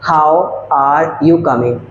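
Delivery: slow, word by word, with pauses between words; slow dictation. Shown as a demonstration. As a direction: spell out the sentence slowly for the class. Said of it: "तो इसको बोलने का जो तरीका होगा".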